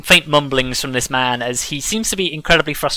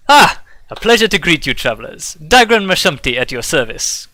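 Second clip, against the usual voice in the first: merchant Dagran; 3 semitones higher than usual. Acted. Merchant greets the travelers, lightly voiced and courteous. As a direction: greet the travelers with a showy bow in the voice.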